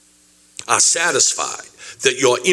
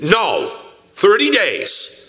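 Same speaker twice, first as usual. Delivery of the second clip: insistent widow; 6 semitones higher, slower than usual. Retold or imitated. Claimant insisting on money.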